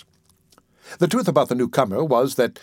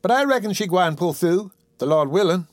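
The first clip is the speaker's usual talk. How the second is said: higher-pitched caretaker voice; lightly voiced dialect caretaker, hopeful; Aunt Dicey Fairfax; 6 semitones higher than usual. Caretaker saying the patient will pull through, hopeful. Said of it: "broke in Aunt Dicey Fairfax".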